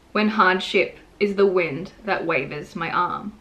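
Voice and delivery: measured poem reading with pauses between lines; قراءة شعرية. Acted. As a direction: recite it line by line, deliberately. Recites own short poem.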